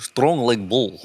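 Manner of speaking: slow echo of a strongman impression; lightly voiced character, words drawn out; Colossus. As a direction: stretch it slowly, half in character. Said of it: "Uh, Colossus, yeah".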